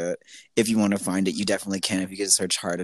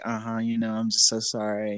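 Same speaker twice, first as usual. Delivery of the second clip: polite fake apology; sweet, apologetic service tone; customer service voice; 2 semitones higher than usual. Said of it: "in my customer service voice".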